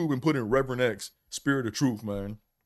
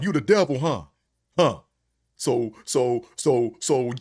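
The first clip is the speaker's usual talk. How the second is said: mocking preacher taunt; 3 dB louder, slower than usual. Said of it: "And he was like".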